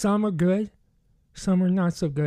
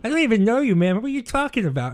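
higher, a touch louder, defensive; startled friend caught off guard; backing off, startled; 5 semitones higher, 3 dB louder than usual. Retold or imitated. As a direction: play the surprised guy on the phone. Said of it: "He goes".

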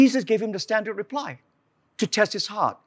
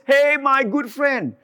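higher, slow flattering hello; stretched-out mock friendly greeting, higher; fawning stranger; 6 semitones higher, 4 dB louder, slower than usual. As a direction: lay on the flattery. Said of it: "He says".

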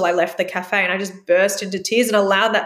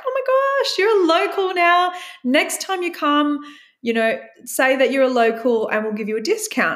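high, excited gush that settles down; bubbly server welcoming a new local; gushing cafe worker; 5 semitones higher than usual. Retold or imitated. Cafe worker greets her warmly.

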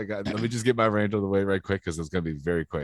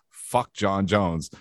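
deadpan rant line; much slower than usual. Shown as a demonstration. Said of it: "the first thing I say when I give my John Jones rant is".

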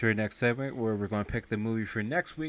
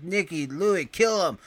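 dying order; 8 semitones higher, 4 dB louder than usual. Retold or imitated. Duran voiced, ordering a kill.

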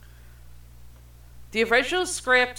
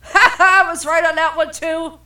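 loud, high burst of triumphant laughter; gloating laugh; 7 semitones higher, 8 dB louder than usual. Real, not acted. Crowing to a friend about being right, loud gloating laugh.

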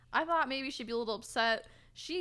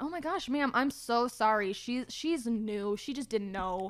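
mock-earnest customer-service apology; lightly acted gushing apology for a coworker; smooth over a customer with a put-on apology; apologetic re-enactment. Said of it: "to give you the sound of what it was like".

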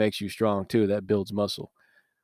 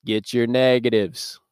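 slow, louder Southern drawl of a gym coach; Southern coach accent; 4 dB louder than usual. Retold or imitated. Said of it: "echoing the coach catchphrase".

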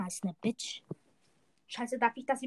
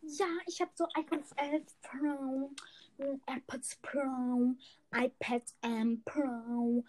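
lightly voiced rich kid, slow and softer; a hint of a bragging rich kid, words drawn out; 4 dB quieter, slower than usual. Mocking rich kids for the listeners, a lightly bragging voice. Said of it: "das sind so Rich Kids be like".

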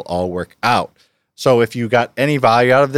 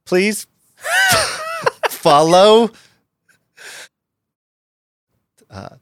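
higher, louder attempt at a Boston accent; 10 semitones higher, 3 dB louder, slower than usual. Shown as a demonstration. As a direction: try a Boston accent, haltingly. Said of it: "like Boston?".

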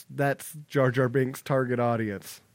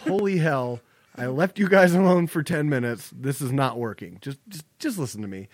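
bossy scolding. Retold or imitated. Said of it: "Hera comes in and goes".

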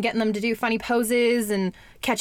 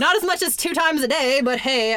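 high, louder giggly line; laughing; 6 semitones higher, 4 dB louder than usual. Real, not acted. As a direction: laugh through the words. Laughing at her own gym claim.

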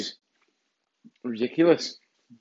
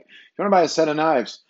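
slightly higher mimicked seller's accent; imitated street seller's accent; 4 semitones higher than usual. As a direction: mimic how the stranger's accent sounded. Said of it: "that's what he sounded like".

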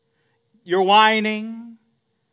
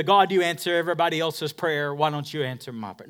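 mock complaint. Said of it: "woe is me card".

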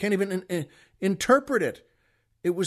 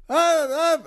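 high, raised mock yell; imitated angry berating; 8 semitones higher, 4 dB louder than usual. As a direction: mimic a berating clerk in nonsense. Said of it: "with anger and volume".

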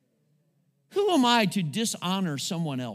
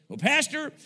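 high, slow, smug church member; smug churchgoer; 8 semitones higher, 3 dB louder, slower than usual. Pretend. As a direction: play the self-satisfied believer, drawn out. Self-righteous churchgoer quoted by pastor.

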